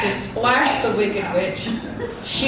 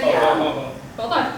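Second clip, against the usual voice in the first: witch voice; 10 semitones lower than usual. Acted. Scared witch pleads.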